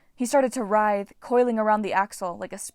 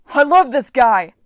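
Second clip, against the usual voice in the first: loud slow yell, higher; 4 semitones higher, 14 dB louder, slower than usual. Acted. Ares yelling back at Mars in Frank's head, gleeful yell. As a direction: bellow it back in delight. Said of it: "Ares yelled back".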